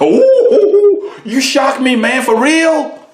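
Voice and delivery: hammed-up amazement, slow; mock shock. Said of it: "pretend listener shocked".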